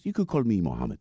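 put-on amateur Pakistani accent; bad Muslim accent. Driver introducing himself to his passenger, in a mock Pakistani accent. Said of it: "That's my really bad Muslim accent".

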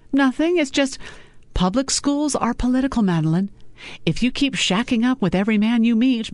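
mother scolding her daughter about her choices. Acted. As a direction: cut in high and scolding.

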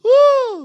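loud, drawn-out cry; theatrical loud "ah"; high wail. Pretend. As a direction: let out a high, hammed-up howl. Joking outburst after the story.

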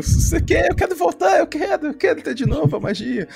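high-pitched, carried-away enthusiasm; giddy insistence, pitched well up; eager fan excitement. Real, not acted. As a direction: plead eagerly like a hooked fan.

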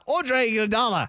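British attempt that comes out South African; South African accent. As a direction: read the name with a mock South African accent. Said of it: "do your South African accent".

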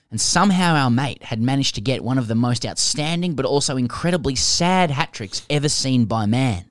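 animated read-aloud with punched key words; reading a listener's letter. Acted.

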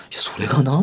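whispered, storyteller's hush. Retold or imitated. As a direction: lean in and whisper it. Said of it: "って". (声をひそめてささやく)

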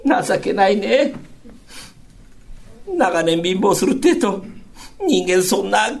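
lightly voiced wife, sighing at him; wife pitying her husband's dream, understated; rueful wife. Wife laments his dream.

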